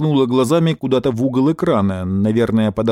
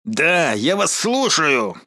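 general; 3 semitones higher, much slower than usual. Acted. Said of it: "отозвался генерал".

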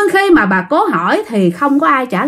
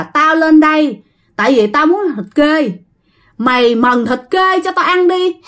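water ghost demanding; 4 semitones higher than usual. Acted. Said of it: "Thủy ý là ma nước".

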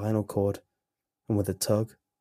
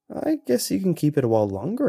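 polite; 7 semitones higher, 5 dB louder, faster than usual. Acted. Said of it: "I answered politely".

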